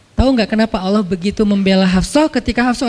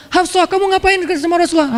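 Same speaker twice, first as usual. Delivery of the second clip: scolding father; 7 semitones higher than usual. Retold or imitated. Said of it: "Langsung Umar marah-marah".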